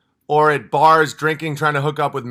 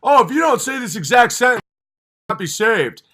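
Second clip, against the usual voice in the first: mock preachy scold; 5 semitones higher than usual. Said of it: "it's like".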